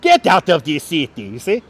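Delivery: comic foreign accent in imitation of a sitcom character; imitated foreign accent, punchy catchphrase; Balki. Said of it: "inspired by Balki".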